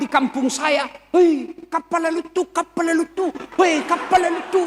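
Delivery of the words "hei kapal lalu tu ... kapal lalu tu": put-on excited child calling at the sky. Child in the village spots a plane, excited calling out. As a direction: shout up at the plane as a village kid.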